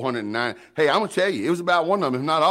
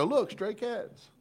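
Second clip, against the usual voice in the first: slow, softer mock-wonder; deadpan indifference; 8 semitones higher, 6 dB quieter, much slower than usual. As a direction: say it with flat mock interest, slowly. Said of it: "I see stray cats and go".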